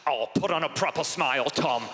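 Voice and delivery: a lightly voiced annoyed British dad; mild British scold over a photo. Dad scolding son over a photo, mild British accent. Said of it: "impression of my dad".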